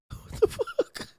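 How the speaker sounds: voiceless mock-shocked whisper; stunned whisper. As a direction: whisper it in feigned disbelief. Stunned husband's reaction, acted.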